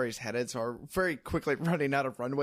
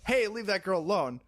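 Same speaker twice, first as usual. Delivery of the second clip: higher-pitched, half-hearted mock call; cursory call-out; 6 semitones higher than usual. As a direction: toss out a token intervention as a bystander. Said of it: "just as a cursory sort of gestures".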